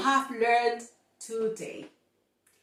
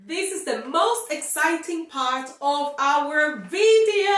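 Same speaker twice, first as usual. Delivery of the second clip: excited; 4 semitones higher than usual. Real, not acted. Hyping the tongue twister.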